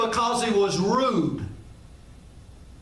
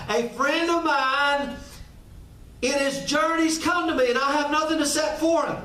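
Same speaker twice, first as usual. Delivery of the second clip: pitched up and pressing, ending in a shout; urgent pleading friend; 4 semitones higher than usual. Acted. Friend at the door begs his neighbour for bread, urgent and rising. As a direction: beg him to help, rising to a cry. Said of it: "Get the tone right here".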